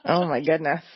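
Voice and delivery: amused exclamation through laughter; real laughter in the voice; laughing. Real, not acted. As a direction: say it while cracking up. Reacting amid group laughter.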